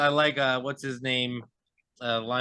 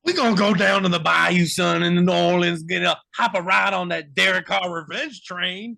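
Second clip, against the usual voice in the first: put-on Louisiana accent; 3 semitones higher, 6 dB louder than usual. Cohost hyping the Saints' revenge season to friends, loud Louisiana accent. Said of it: "That was a good Louisiana accent".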